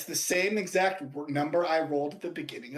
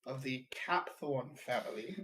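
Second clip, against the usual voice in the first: grand heroic proclamation; heroic announcement. Acted. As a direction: speak as the arriving hero. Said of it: "Your heroes have arrived" energy".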